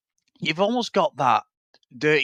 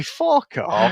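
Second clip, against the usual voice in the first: mock kid snap; 12 semitones higher than usual. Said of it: "walks off and say".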